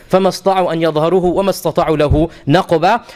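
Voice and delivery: flowing chanted tajweed reading; Quran recitation. Acted. Teacher reciting the full verse to his listeners, in recitation. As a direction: recite it whole, like in the mosque.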